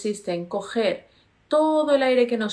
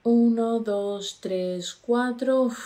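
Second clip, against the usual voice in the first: slow counting; slower than usual. Shown as a demonstration. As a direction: count to four slowly, one number at a time.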